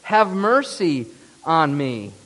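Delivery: slow, drawn-out retold plea; measured preacher's version of a desperate cry; mild imploring. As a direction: implore without raising the volume. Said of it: "to implore Jesus".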